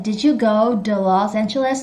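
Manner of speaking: imitating the recording, "to" as duh; American reduced "to". Shown as a demonstration. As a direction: echo it with "go to" as go-duh. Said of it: "This guy said".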